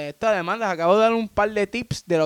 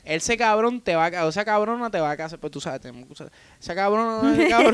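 mock rant about the boss; 4 semitones higher than usual. Ranting about a vengeful boss.

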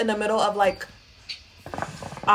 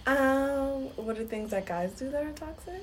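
customer service voice; 4 semitones higher, 9 dB quieter, slower than usual. Acted. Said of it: "Can you put on your regular voice?".

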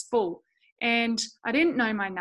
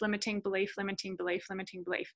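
each repeat softer until almost gone; fading repetition; 2 semitones lower, 7 dB quieter, faster than usual. Acted. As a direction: let the phrase die away, one repeat at a time. Repeating her own limiting belief.

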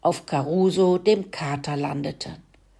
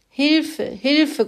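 high, loud desperate squeal of help; loud squealing cry; 10 semitones higher, 3 dB louder than usual. Acted. Pig stuck in the muck pit squealing loud for help. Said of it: "grunzte Kalle so laut er konnte".

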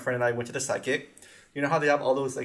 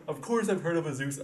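defensive mimic. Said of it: "you just have to be so defensive".

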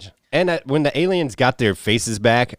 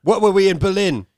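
high, slow shouted outrage; mock villain yell; 12 semitones higher, 4 dB louder, slower than usual. Mocking the spy villain's betrayal in a high yell. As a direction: bellow it like a hammy spy villain.

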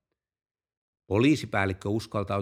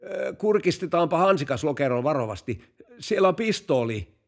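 lightly acted call, pitched up; calling over; 5 semitones higher than usual. Police chief near the car asking about the glovebox, calling over. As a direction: call over a wary instruction, higher voice.

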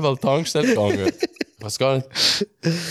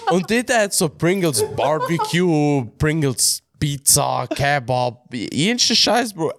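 slow, high, laughing list; drawn out through laughter; 4 semitones higher, slower than usual. Real, not acted. Laughing while listing the Pringles flavours. (langsam und lachend)

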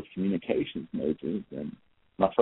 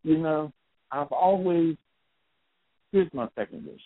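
higher, eager voice for the man; lightly voiced man, pitched up and hopeful; hopeful man asking; 8 semitones higher than usual. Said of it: "The guy goes".

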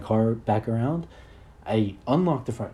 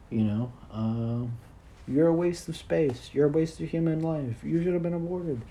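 higher, slow mock yell of a nasty inner voice; 6 semitones higher, slower than usual. Anxiety's inner voice insulting him, in a mock yell. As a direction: sneer it like the voice of anxiety, pitched up. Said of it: "it's yelling at you constantly".

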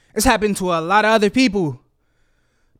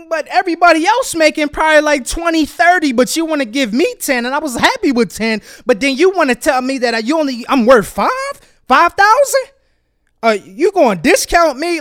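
mildly heated protest, rising in disbelief; indignant; 4 semitones higher than usual. Acted. Job seeker protesting a halved offer to the employer, indignant. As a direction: argue it, peaking on the figure.

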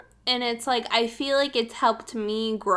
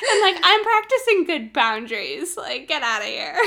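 mock laughing quote; 4 semitones higher than usual.

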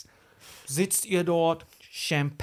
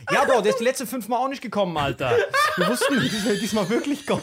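laughing excuse; 5 semitones higher, 4 dB louder than usual. Retold or imitated. Voicing the staff's excuse.

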